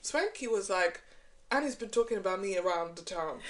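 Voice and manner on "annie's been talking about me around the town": a clumsy put-on Nigerian accent; bad imitated accent. Host quoting Swanky on the reality show, bad Nigerian accent. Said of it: "that was a really bad accent".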